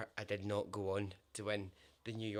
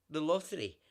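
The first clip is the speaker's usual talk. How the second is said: louder, higher American-style "lottery" with a flapped t; clerk's "the lottery"; 4 semitones higher, 6 dB louder than usual. Retold or imitated. Clerk repeats the word he could not understand, louder. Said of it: "the guy literally goes".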